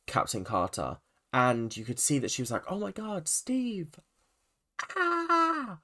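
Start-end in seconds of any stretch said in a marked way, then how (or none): 2.7-5.8 shocked heroine. Retold or imitated. Voicing Captain Carter's shock.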